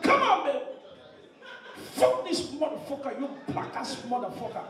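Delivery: mock American girl in bed; lightly hammed-up American girl's outburst; shouting American girl. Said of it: "Now the girl, they shout".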